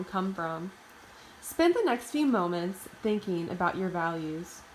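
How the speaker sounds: measured meditation voice with long pauses; guided meditation. Acted. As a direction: lead listeners inward, phrase by phrase, pausing between thoughts. Leads a guided imagery meditation.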